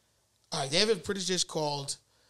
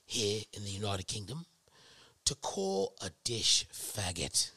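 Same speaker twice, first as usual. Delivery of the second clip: mock-proud British speech, dropping lower; British accent; 6 semitones lower than usual. Brit boasts about United Kingdom dish names, mock British accent. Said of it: "read it in the British accent".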